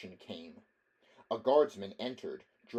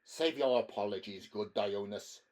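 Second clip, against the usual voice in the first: affected lisp. Acted. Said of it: "he lisped affectedly".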